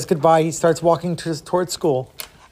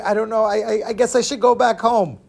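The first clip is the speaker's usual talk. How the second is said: put-on higher, stammering child; acted timid kid; nervous boy; 4 semitones higher than usual. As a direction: falter uncertainly before a giant.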